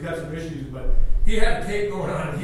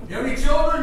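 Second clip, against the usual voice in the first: 1 neighbor quizzing; 6 semitones higher, 4 dB louder, faster than usual. Retold or imitated. Neighbor skit.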